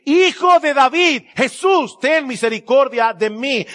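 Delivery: high, loud, slow cry for mercy; pleading cry. Retold or imitated. Blind beggar crying out to Jesus, high and loud. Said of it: "comenzó a gritar y a decir".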